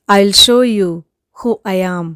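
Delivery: firm, loud command; angry demand. Shown as a demonstration. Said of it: "கோபத்தோட பேசுறதுக்கு".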